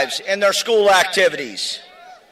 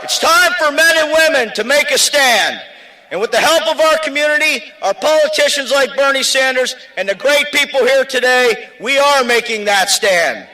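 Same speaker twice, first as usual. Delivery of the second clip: rally shout; 4 semitones higher than usual. Real, not acted. Union rally speech climax.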